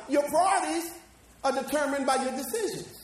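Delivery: shouted sermon emphasis; preaching shout. Real, not acted. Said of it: "preacher shouts point".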